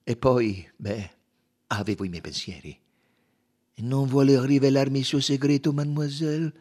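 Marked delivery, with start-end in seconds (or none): 3.8-6.5 coaxing Poirot, higher and louder, sweet on the surface; gently persuasive. A narrator's reading. Poirot coaxing the young woman to confess, sweetly persuasive. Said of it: "La voce di Poirot era dolce e persuasiva".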